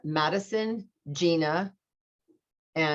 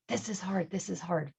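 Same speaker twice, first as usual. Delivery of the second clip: echo; 3 semitones higher, 7 dB quieter than usual. Retold or imitated.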